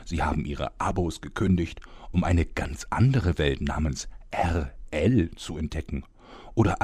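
grand storyteller voice opening the tale; story narration. Acted. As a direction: welcome the fans and set the scene. Narrator opens the new story. (feierliche Erzählerstimme)

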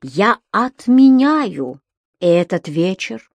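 understated graveyard solemnity; measured, grave curse; sepulchral tone. Acted. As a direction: pronounce it like a funereal sentence. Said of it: "гробовым тоном посулил он".

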